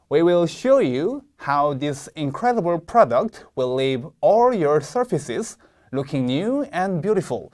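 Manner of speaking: slow reading with stress and pauses; slow model reading. Shown as a demonstration. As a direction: read it slowly, stressing show and all. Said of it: "다음 문장 읽어보겠습니다". (강세와 끊어읽기를 살린 느린 시범 낭독)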